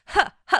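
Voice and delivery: high, breath-launched "ha, ha"; two demonstrated high "ha" bursts; aspirate "ha" demo. Shown as a demonstration. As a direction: push short laughs out from the core. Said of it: "when we throw in an aspirate onset".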